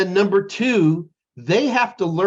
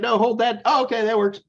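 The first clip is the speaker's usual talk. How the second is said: helper partner; 6 semitones higher than usual. Retold or imitated. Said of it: "she'd be like".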